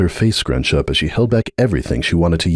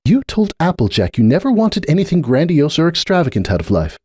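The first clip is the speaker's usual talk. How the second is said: mild anger; 10 semitones higher than usual. A narrator's reading. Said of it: "she sighed angrily".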